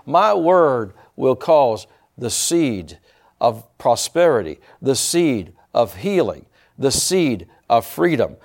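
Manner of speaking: measured, emphatic phrases with pauses; prophetic declaration. Real, not acted. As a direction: proclaim it solemnly as the word of the Lord. Delivers a prophecy as God.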